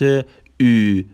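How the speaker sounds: "او" as a drawn-out fronted ü; Turkish ü sound. Shown as a demonstration. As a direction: hold "او" as a rounded ü.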